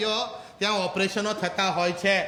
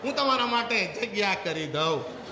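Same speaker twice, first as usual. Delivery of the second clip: put-on crying child; 4 semitones higher than usual. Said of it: "રડતા રડતા કે".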